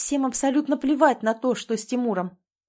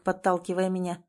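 ordinary delivery

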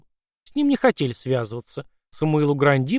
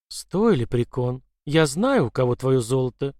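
dead voice. Acted. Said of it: "мёртвый женский голос".

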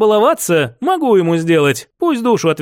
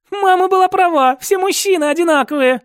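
laughing; 11 semitones higher than usual. Acted. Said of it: "рассмеялась девушка".

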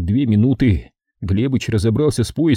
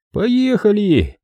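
drawn-out, raised answer; slow strained reply; 11 semitones higher, much slower than usual. A narrator's reading. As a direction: stretch the word out tensely. Глебыч отвечает. (протяжный напряжённый ответ)

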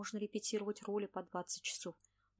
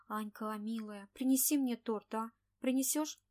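pleading; 2 semitones higher, 5 dB louder, slower than usual. Acted. Sick friend begging for cake.

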